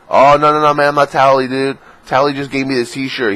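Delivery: high, loud protest easing off in volume; hurried mock denial. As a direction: fend off a fan with a put-on denial. Acted denial to a stalker fan.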